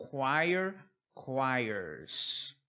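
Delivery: "Choir, choirs" said as "kwire, kwires"; pronunciation demo. Shown as a demonstration. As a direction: model choir then choirs separately, kw at the start. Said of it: "Memoriza a pronúncia".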